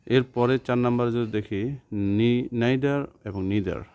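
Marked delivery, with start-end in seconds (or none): 2.5-3.8 neither as "naither" then "neether"; British vs American neither. Shown as a demonstration. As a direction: contrast both neither sounds slowly. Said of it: "হচ্ছে British উচ্চারণ".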